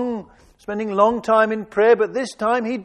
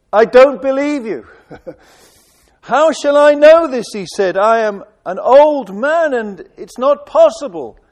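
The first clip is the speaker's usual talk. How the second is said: loud protest; 4 semitones higher, 6 dB louder than usual. Acted. Zechariah protesting to the angel.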